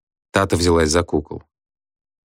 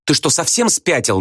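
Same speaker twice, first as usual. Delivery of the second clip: angry outburst; 10 semitones higher than usual. A narrator's reading. Nadya attacks husband.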